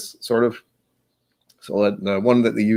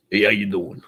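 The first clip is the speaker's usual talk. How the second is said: casual greeting in a character voice; playful altered-voice hello; put-on voice. Shown as a demonstration. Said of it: "I like that voice too".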